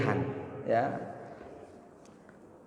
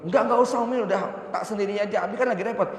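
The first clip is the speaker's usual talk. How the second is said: higher, quick coy refusal; coy wife; 5 semitones higher, much faster than usual. Retold or imitated. Wife coyly insisting she'll go to market alone. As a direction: play the wife pretending she doesn't need him. Wife voiced in acted dialogue.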